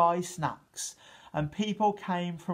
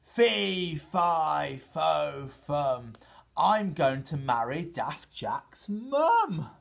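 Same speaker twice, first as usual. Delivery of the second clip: booming giant; much slower than usual. Acted. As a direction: announce it like a proud giant. Giant declares love.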